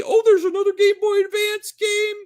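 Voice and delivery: squeaky high mock announcer. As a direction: mimic the company in a silly high voice. Mocking Nintendo's announcement.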